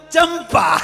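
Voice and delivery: high, loud, in a put-on voice; comic sudden answer. The forgetful man suddenly remembers his wife, high comic blurt. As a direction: blurt the name out like a simpleton.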